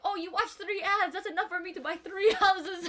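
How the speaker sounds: high, loud, laughing delight; mock enthusiasm. Daughter hyping up mom's ad views. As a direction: tease her with big excitement. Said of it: "I was like".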